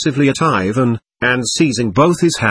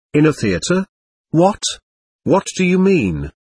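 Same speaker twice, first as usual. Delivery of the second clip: higher-pitched, incredulous questions; stunned by the accusation, voice jumping up; astonished exclamation; 4 semitones higher than usual. A narrator's reading. Katerina to Alyosha, astonished and stung. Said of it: "exclaimed Katerina Ivanovna, profoundly astonished".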